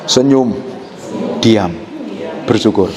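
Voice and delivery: congregation recitation. Shown as a demonstration. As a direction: lead them to say it calmly. (dengan tenang, pelan dan rendah untuk diulang jemaat)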